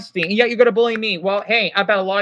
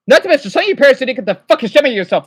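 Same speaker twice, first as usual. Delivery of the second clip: angry rant; 6 dB louder, much faster than usual. Real, not acted. Ranting angrily at chat.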